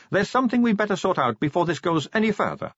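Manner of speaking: put-on high, breezy young woman voice; chatty, light-hearted vampire girl. Sally voiced.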